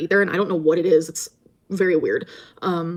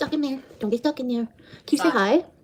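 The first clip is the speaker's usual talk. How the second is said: high-pitched voice kept for talking to pets; 6 semitones higher than usual.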